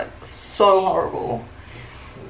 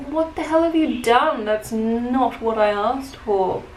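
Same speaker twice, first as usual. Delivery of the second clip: upset customer; 3 semitones higher than usual. Retold or imitated. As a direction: demand an explanation, mildly outraged. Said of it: "so upset".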